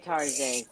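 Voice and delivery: "Tarjay" with a soft French zh and an AY ending; "Tarjay", Target said as if French; mock-French pronunciation of Target. Real, not acted. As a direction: say "Tarjay" as tar-ZHAY. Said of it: "Yes, we say Tarjay".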